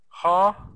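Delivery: Ho-spi-tul split into three loud syllables. Shown as a demonstration. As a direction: chop Ho-spi-tul into beats, each hit hard. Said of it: "I put the capital letter when there is a stressed syllable".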